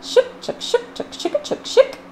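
soft, breathy whispered shook shook; whispered washboard shook. Acted. Imitating a washboard.

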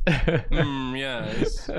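a hint of learned approval; lightly voiced scientist. Colleague in conversation amongst other scientists, mock-scholarly. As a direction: agree like a pondering academic, lightly acted.

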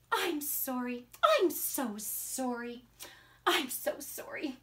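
soft, subdued motherly sorry; contrite apology. Acted. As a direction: apologise gently to your upset child. Mom apologizing to upset son.

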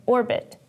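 "orbit" with the weight on "or"; strong "or", light "bit" in "orbit"; stress on first syllable. Shown as a demonstration. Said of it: "has the first syllable stressed".

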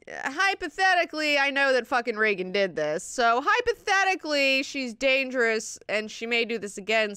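imitating someone pleading a hypothetical case; agitated hypothetical. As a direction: argue it out loud, torn and insistent. Acting out a conflicted detective's pleading.

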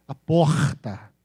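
slow porta with a long guttural carioca R; carioca accent. Shown as a demonstration. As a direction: drag the R in porta like a Rio native. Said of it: "O carioca fala um R bem puxado".

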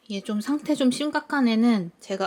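ordinary talk, nothing marked

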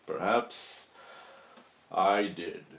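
soft, drawn-out confession; quiet admission. Acted. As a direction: let it drop low and hushed. Dramatic admission to the jury.

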